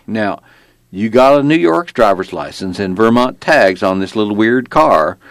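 Virginia traffic cop laying down the law; belligerent small-town cop. Acted. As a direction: play a folksy, self-important lawman, pitched a little up. Narrator plays the small-town cop.

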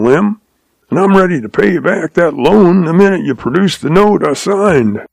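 a hint of a smug old prospector, pleased with himself; Hank, sly old outlaw. Hank's voice held.

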